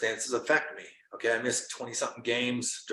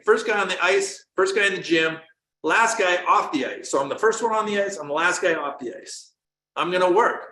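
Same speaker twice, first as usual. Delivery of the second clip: raised, louder, driven vow; fired-up determination; 4 semitones higher, 4 dB louder than usual. Retold or imitated. Player vowing to himself to prove the doubter wrong, fired-up determination. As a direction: vow it with rising fire, punching each promise.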